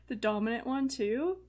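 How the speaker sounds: laughing through the words; real laughter breaking into a quick guess. Real, not acted. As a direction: giggle it out, amused. Laughing while guessing Merida's role.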